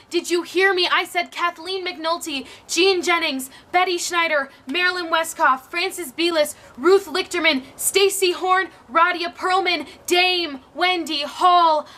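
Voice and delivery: forceful, loud repeat of the names; insistent roll call. Acted. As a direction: hammer every name home, drawing out the last.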